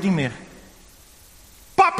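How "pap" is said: scared call. Acted. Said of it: "riep hij".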